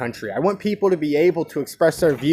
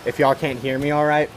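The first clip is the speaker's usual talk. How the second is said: wind on mic. Real, not acted. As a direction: wind noise blowing into the mic. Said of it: "I'm sorry if, about this, uh, wind right here".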